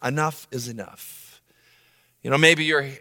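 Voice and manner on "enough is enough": tag. Retold or imitated. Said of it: "you feel like".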